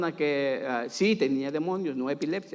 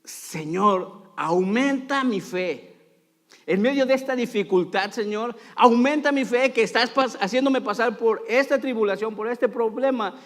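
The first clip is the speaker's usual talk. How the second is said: raised, insistent plea to God; acted prayer cry; 5 semitones higher than usual. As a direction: plead upward with rising urgency. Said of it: "deberíamos de cambiar nuestro grito quizá por".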